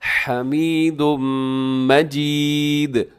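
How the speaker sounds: हमीदुम with breath from mid-throat and hummed m; careful Arabic h opening हमीदुम; correct throaty h. Shown as a demonstration. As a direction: slowly draw out हमीदुम मजीद. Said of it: "नहीं पढ़ना बल्कि".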